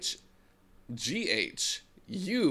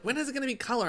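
put-on high whiny kid question; 13 semitones higher, much faster than usual. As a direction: whine it like a bored child. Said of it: "They were like".

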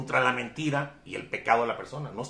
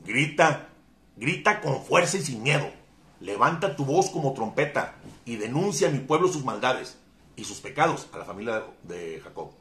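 proclaimed command. Acted. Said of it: "En Isaías dice".

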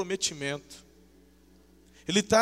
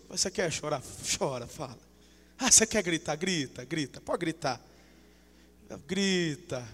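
patient permission; 3 semitones lower, 4 dB quieter than usual. Acted. Voices patient God permitting tears.

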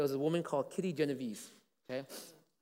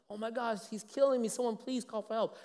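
much higher, panicked mock shriek; imitating a shriek; 9 semitones higher, 5 dB louder than usual. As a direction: cry out as if being killed. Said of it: "she shrieked, and she cried".

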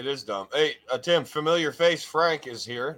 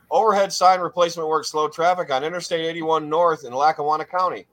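news read. Real, not acted. Reads a news item aloud.

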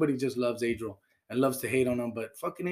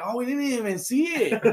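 laughing fake innocence; 9 semitones higher, 4 dB louder than usual. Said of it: "And we're like".

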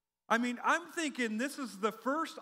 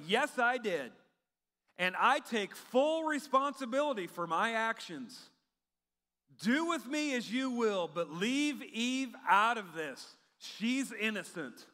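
a hint of a solemn hero owning up, slowing at the end; lightly voiced brave husband taking the blame; noble confession; 3 semitones higher, 4 dB louder than usual. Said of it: "that's what he should have said".

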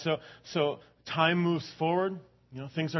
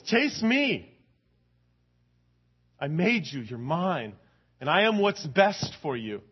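voice of God; 3 semitones higher, 4 dB louder, slower than usual. Pretend. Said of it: "God says".

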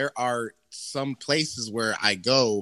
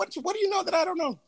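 mock suspicion; 4 dB quieter, faster than usual.

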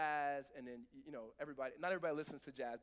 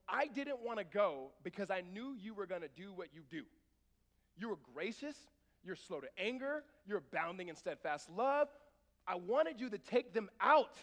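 louder, rising complaint to a shout; whining angry Jonah; 2 semitones higher, 8 dB louder than usual. Acted. Jonah complaining to God, building angry. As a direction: build from whine to outburst. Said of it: "He is going".

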